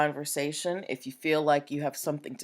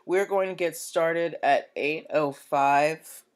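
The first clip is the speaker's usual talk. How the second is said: hiccups; 2 semitones higher, 5 dB louder, slower than usual. Real, not acted. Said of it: "I have the hiccups".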